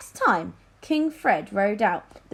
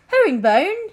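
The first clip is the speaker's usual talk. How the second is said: king calling; 10 semitones higher, 8 dB louder than usual. A narrator's reading. King summons his adviser.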